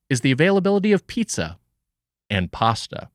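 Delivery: measured narrator read of a history intro; documentary narration read. Acted. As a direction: read it like a mock documentary voiceover.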